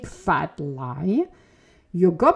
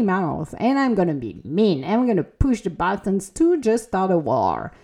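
mock pissed rant. Podcaster voicing her goblin out to start a war, mock angry. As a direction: play the petty inner goblin itching for a war. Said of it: "This is the kind of".

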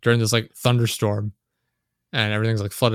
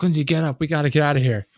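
higher, louder urgent call to wake her; retold alarm to his wife, higher and louder; 5 semitones higher, 4 dB louder than usual. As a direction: rouse her in a panic, half-acted. Urging wife in collapsing building.

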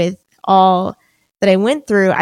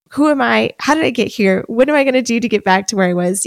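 higher, rushing mock panic; retold frantic; 4 semitones higher, faster than usual. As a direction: recount your panicked thoughts, speeding up at the end. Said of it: "I felt frantic".

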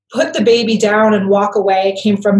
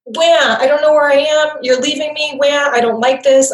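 mock baby wail, pitched up; whiny anxious baby; 5 semitones higher than usual. Anxious baby as mama leaves, mock whiny wail. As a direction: fuss like a lightly voiced upset baby. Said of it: "an anxious would say".

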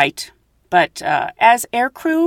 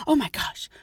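flustered; 5 semitones higher, 6 dB quieter than usual. Retold or imitated. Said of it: "she looked flustered".

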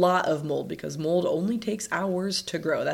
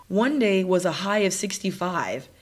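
stuffy, nasal voice from sinus trouble; blocked-up nasal tone; 2 semitones higher than usual. Real, not acted. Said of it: "I sound a bit nasally".

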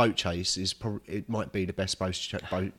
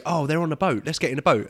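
higher, louder dumb henchman voice; mock baddies; 7 semitones higher, 5 dB louder than usual. Mocking the film's baddies, higher mock voice. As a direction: play the baddies as eager fools. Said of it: "the baddies go".

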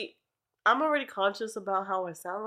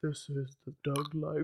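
hammed British accent; 5 semitones lower, 8 dB quieter, slower than usual. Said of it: "too hard".

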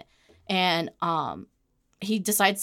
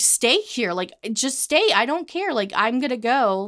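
retold plea, higher and insistent; exasperated insistence; 4 semitones higher than usual. Girlfriend telling boyfriend to just stay, exasperated. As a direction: brush him off, pitched up. Retelling what she told him.

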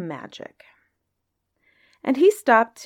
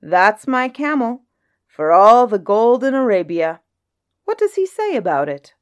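genie voice; 3 semitones higher, 6 dB louder than usual. Acted. Djinn speaks, surprised.

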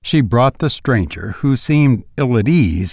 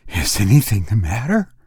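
breathless; 2 semitones lower than usual. A narrator's reading. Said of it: "she asked breathlessly".

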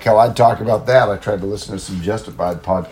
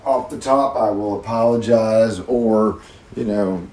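low rough worn-out voice; gravelly voice; 3 dB louder than usual. Real, not acted. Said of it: "this low, gravelly voice of mine".

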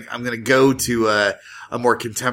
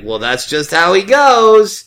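catchphrase delivery; 7 semitones higher, 7 dB louder, slower than usual. Shown as a demonstration. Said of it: "you do a catchphrase".

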